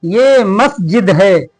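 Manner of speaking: each word read out slowly and evenly; slow lesson reading. Shown as a demonstration. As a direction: read it aloud clearly for young pupils. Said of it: "reads the lesson text slowly". (बच्चों को पाठ पढ़कर सुनाते हुए, धीरे-धीरे)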